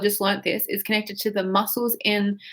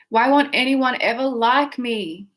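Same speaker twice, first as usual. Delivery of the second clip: whiny; 2 semitones higher than usual. Shown as a demonstration. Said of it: "Say it like that".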